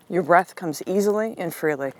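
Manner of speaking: calm breathing mantra; soothing affirmation. Shown as a demonstration. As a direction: breathe the words out gently.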